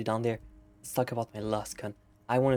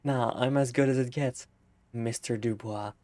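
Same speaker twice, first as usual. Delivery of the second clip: laughing through the line. Real, not acted.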